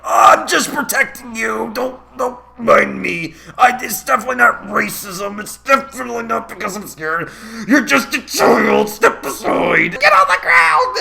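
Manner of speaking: a hint of a condescending officer; mock adult. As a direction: sneer it as a fake-kind adult. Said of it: "where they're like".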